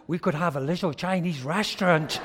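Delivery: fast, loud, laughing plea; laughing woman's voice. Retold or imitated. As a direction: laugh through her hopeful offer. Woman voiced in retold story.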